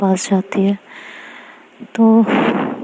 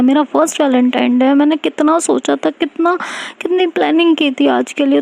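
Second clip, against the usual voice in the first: hurt and tearful, rising higher as she goes; teary complaint; 4 semitones higher than usual. Acted. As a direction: complain on the verge of tears. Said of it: "Tanya की आंखें भर जाती है". (आंसू भरी शिकायत)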